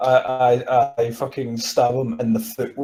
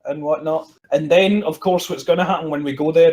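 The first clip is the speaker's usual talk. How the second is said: ordinary delivery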